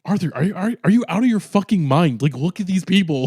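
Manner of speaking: high, mock-exasperated disbelief; incredulous clubgoer. Someone in the club scolding Arthur in high mock disbelief. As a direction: point at the crowd in hammed-up disbelief. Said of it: "someone's like".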